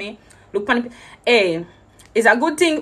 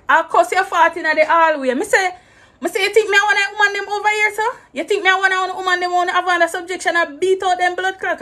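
much higher, indignant retort; indignant outburst; 10 semitones higher than usual. Retold or imitated. Traveller rounding on the guard in the hallway, high and indignant. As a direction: throw the question back, offended.

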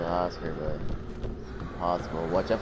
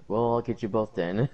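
chuckling through the words; laughing; 3 semitones higher than usual. Real, not acted. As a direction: say it while laughing. Laughs at friends dying.

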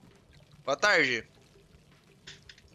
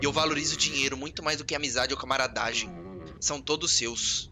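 a hint of a cold villain; 6 semitones lower, 3 dB quieter than usual. Voicing villain's cold lines. (vilão frio, lento e grave)

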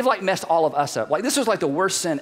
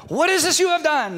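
God asking; 9 semitones higher than usual. Acted. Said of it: "the Lord God said to the woman".

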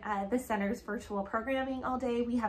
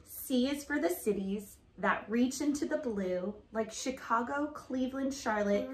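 lively picture-book read-aloud; reading to children. Acted. Mom reading an alphabet book to her daughter, storytelling voice. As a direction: read it like a storybook for a little girl.

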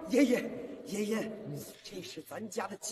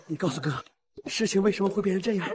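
angry; 4 semitones lower, 4 dB louder, faster than usual. Acted. Brother demands an answer.

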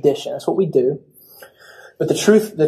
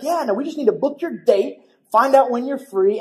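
perky caller; 5 semitones higher than usual. Retold or imitated. Caller explains the booking.

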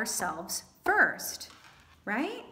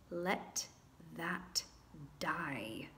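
whispered; 5 semitones lower, 12 dB quieter, much slower than usual. Acted. Dramatic release of old fear.

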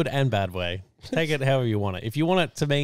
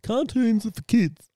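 mocking tone; 11 semitones higher, slower than usual. Mocking friend's attitude.

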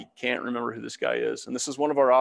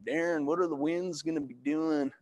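put-on half-successful southern accent; retry a coworker's southern accent; loosely imitated Southern accent. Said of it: "can't do his accent".

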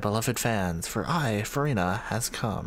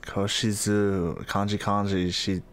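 slow, halting mock Japanese; 2 semitones lower than usual. Shown as a demonstration. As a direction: show off your fake Japanese. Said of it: "Yeah, I speak Japanese".

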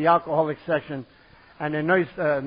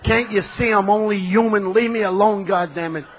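exasperated mock yell, building louder and higher; 4 semitones higher, 5 dB louder than usual. Drinker yelling at imagined women through the door, mock exasperated yell. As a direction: holler it as if through a door, hammed-up. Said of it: "I'd yell through the door".

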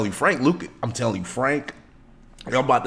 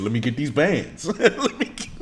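laughing quote; 3 semitones higher than usual. Retold or imitated. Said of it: "He said, he said".

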